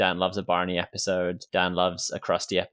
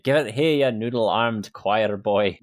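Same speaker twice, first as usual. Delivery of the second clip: lightly voiced groundskeeper taunting the reverend; Willie voice; 2 semitones higher, 4 dB louder, slower than usual. Fan quoting Willie grabbing Lovejoy's club, slow mock taunt. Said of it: "taking the club off of Reverend Lovejoy and saying".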